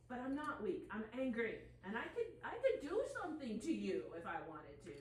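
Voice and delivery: acting out being mad but tearful; demo anger. Shown as a demonstration. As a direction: push out the anger as a demonstration. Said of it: "That's how angry I am".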